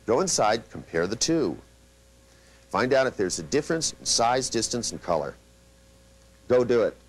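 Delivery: short, firm downward commands. Shown as a demonstration. Teacher showing how to give a client a command, firm. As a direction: give the order, no room to argue. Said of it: "When you go".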